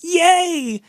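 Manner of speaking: high, squeaky mock celebration; mocking a giddy champion; mock happy champion. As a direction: parody her giddy win. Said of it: "she's very emotional and she's very happy and she's like".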